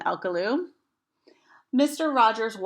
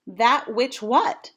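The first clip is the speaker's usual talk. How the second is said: puzzled question; 3 semitones higher, 5 dB louder, much slower than usual. Acted. Amelia confused by homophone.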